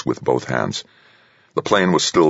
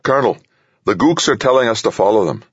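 calling out; 7 semitones higher, faster than usual. A narrator's reading. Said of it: "O'Banion called".

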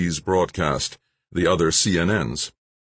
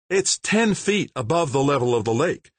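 higher, sharp retort; snapped; 10 semitones higher than usual. Acted. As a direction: cut him off curtly. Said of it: "the mayor snapped".

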